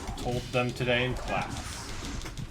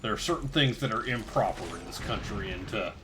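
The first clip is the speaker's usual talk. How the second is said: interviewee voice. Acted. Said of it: "now you're also the person they're interviewing?".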